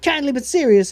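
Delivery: the Cat repeats it, pleased with himself. Acted. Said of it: "cat repeats".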